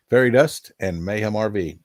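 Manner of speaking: usual speaking voice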